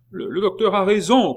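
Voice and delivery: loud, high-pitched acted shout; crowd shout. A narrator's reading. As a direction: cry out like a whole crowd agreeing. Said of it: "crièrent cent voix".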